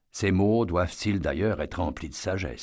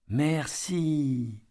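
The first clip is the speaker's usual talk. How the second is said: merci aigu de petite fille; fillette reconnaissante; 7 semitones higher than usual. A narrator's reading. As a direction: remercie d'une voix d'enfant haut perchée. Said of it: "la fillette". (merci aigu de fillette)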